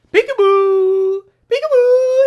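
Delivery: very high, loud sing-song peekaboo, the first one stretched slow; mock peekaboo. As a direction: tease it like scaring a toddler. Mocking the show's jump scare.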